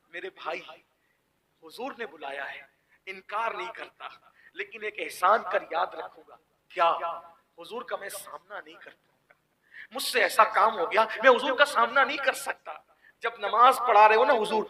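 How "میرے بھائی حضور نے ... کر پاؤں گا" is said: weak plea. Acted. Broken youth pleads.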